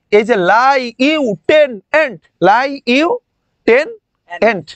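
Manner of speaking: slow "লাই ইউ টেন এন্ট" with pauses between parts; split into parts. Shown as a demonstration. Teacher breaking lieutenant into memory chunks. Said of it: "একটু মজায় মজায় পড়তে হবে".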